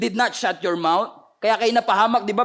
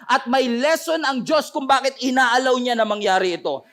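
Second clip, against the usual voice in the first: impassioned declaration of faith; insistent preacher's cadence; preaching; 3 semitones higher than usual. Acted. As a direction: build each line as a vow.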